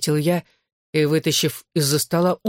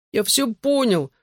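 high, slow pained groan; 7 semitones higher, slower than usual.

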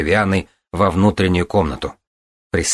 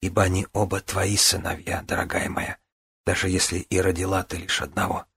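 reassuring; 6 dB quieter than usual. Acted. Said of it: "успокаивающе проговорила Вивиана".

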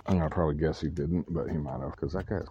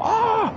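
retold yelp; 6 dB louder than usual. Stranger startled, retold scream.

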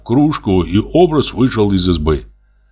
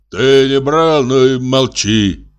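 unhurried, drawn-out answer; composed, slow retort; calm reply; 3 semitones higher, slower than usual. A narrator's reading. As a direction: answer evenly and slowly, refusing to be provoked. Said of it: "спокойно ответил Ефрем".

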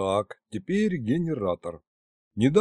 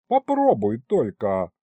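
parrying retort; slower than usual. Acted. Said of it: "парировал Витарамус".

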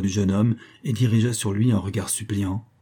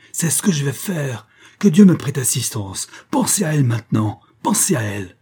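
grim vow; 5 semitones higher, 3 dB louder than usual. Acted. Mother about to push count.

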